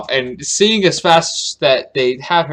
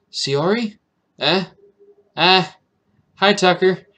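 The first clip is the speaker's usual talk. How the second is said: put-on startled high girl voice; 6 semitones higher, 4 dB louder than usual. Shiori bursts in startled.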